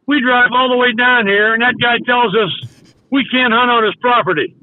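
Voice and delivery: mildly worked-up retelling of an angry man; retold anger. Angry friend back in the car griping about the landowner, mock mad. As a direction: imitate a friend's grievance, a touch heated. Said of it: "he's mad".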